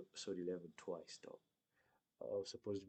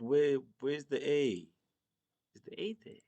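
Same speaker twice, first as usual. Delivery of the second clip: baffled; 6 semitones higher, 8 dB louder than usual. Real, not acted. Baffled at the spelling.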